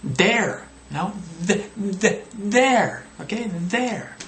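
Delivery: th-, there with tongue out, high; demonstrated th. Shown as a demonstration. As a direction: push the th in there. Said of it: "demonstrate with your mouth".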